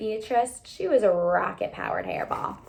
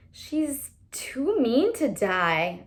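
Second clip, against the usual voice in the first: dry observation; 3 semitones higher, much slower than usual. A narrator's reading. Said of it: "I observed".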